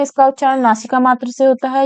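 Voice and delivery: brisk teacher recap; quick recap. Shown as a demonstration. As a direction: rattle off the rule as a quick reminder. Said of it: "तो आप देख सकते हैं".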